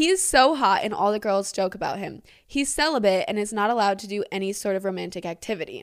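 plain

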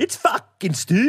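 high, loud put-on Scottish accent. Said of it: "your Scottish accent is better than mine".

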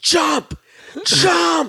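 shrill, very high, panicked screaming. Retelling yelling at his friend Jay during a panic, re-enacting a panicked scream. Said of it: "started screaming at my friend Jay".

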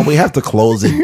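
stereotypical put-on nerdy voice. Imagining a nerd giving a scientific explanation, nerdy voice. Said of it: "It'd be a nerd. He'd be like".

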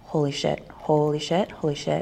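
repeated gushing, starstruck fangirl exclamations. Recalling doing a scene with Catherine O'Hara, reenacting own fangirling. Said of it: "I was fangirling".

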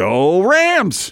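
unconvincing cheer. Cheering on request after being asked for a cheer: cheering for the Rams. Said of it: "let's hear a cheer".

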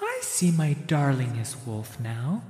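haunting, lilting falsetto voice. Reading a story aloud, voicing an actor's otherworldly line: lilting, haunted falsetto. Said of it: "shifting his voice up to a lilting and haunted falsetto".

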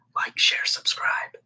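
soft whisper with barely any voice. Closing a video by asking viewers to like and subscribe, whispering. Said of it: "I don't know why I'm whispering".

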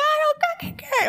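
mock-angry yelling. Retelling yelling back and forth with the husband, retelling an angry yell. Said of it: "we're just yelling back and forth".

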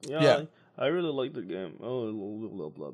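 flat, dull, unexpressive voice sounding uncaring. Talking about streamers, the speaker mocks how Shroud streams now; Shroud monotone impression. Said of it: "he's always so monotone".

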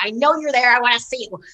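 put-on, imitated angry tone. Retelling angrily demanding to see a hidden craft: imitating own angry demand. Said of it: "because I was demanding so angrily".

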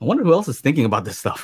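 plain

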